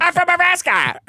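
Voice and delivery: high put-on accent; mock Indian accent. Comic playing a scam caller, high put-on Indian accent. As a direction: fake an American hometown. Mock telemarketer role play.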